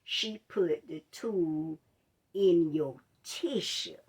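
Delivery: slow, low, careful explanation; walk her through it gently and slowly; patient doctor explaining. Retold or imitated. Doctor explaining to the patient what went wrong, slow calm voice. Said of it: "he said".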